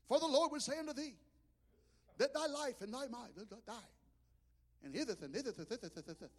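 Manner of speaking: a lightly voiced solemn prophecy in old English; King James prophecy. Brother-in-law prophesying over him, mock solemn. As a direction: intone like an old-time prophet. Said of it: "he would prophesy in King James Version".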